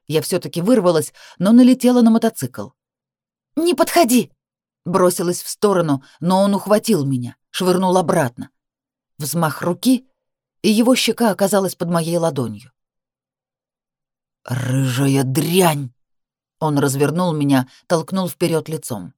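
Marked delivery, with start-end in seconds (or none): 3.5-4.3 much higher frightened shout; shrieking warning. Acted. Woman warns her attacker off, much higher shout. 14.4-15.9 low, very slow snarl. Acted. Man slapped by the woman, low very slow snarl.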